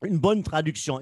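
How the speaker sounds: speaking with a dry throat. Real, not acted. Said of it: "j'ai la gorge sèche".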